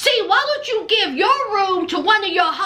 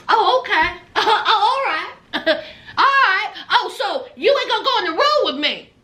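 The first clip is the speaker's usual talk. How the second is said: Kim's laugh; faster than usual. Retold or imitated. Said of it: "And here's Kim".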